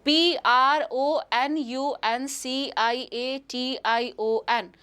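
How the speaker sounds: letters dictated one by one, slowly; slow spelling out. Shown as a demonstration. Teacher dictates the spelling letter by letter, slowly. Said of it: "correct spelling याद रखिए".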